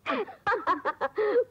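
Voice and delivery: high amused laugh. Acted. Laughs while eavesdropping on couple.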